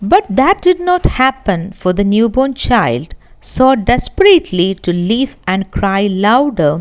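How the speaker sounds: measured, deliberate read-aloud of a story passage; textbook reading. Acted. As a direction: read the passage slowly for the class.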